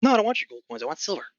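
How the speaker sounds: put-on gruff old goblin. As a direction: play a crusty old goblin selling tickets. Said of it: "Sort of this gruff old goblin".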